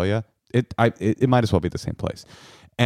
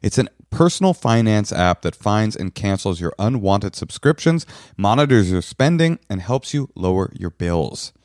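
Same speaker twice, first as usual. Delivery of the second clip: upbeat sponsor pitch read to listeners; 3 semitones lower than usual. Acted. Host pitching a finance app to listeners, bright ad read. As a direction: sell the app like a podcast host.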